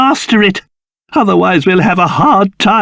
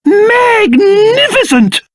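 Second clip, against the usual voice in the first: delighted exclamation; 11 semitones higher, slower than usual. Acted. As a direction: proclaim it grandly. King delighted.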